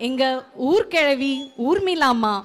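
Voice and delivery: slow, drawn-out reveal; dramatic introduction. Acted. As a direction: announce the character with relish, stretching the name. Narrator dramatically introduces village character.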